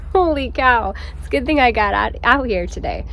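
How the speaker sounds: panting after a short uphill walk; winded, catching breath between words. Real, not acted. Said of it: "I'm out of breath".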